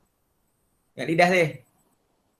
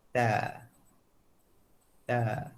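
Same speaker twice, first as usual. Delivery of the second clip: slow motion; 4 semitones lower, 6 dB quieter than usual. Shown as a demonstration. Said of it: "Slow motion, tengok ni".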